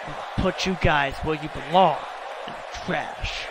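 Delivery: understated tough-guy trash talk; trash-talking rival promo. Acted. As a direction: growl threats at the rival. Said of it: "What does he have to say?".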